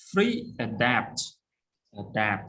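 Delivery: adapt with the second syllable stressed; stress on DAPT. Shown as a demonstration. Teacher drilling vocabulary, stress on dapt. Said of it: "stress on adapt".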